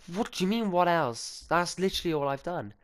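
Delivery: high, incredulous protest; retold high indignant comeback; indignant disbelief. Indignant reply to stepmom.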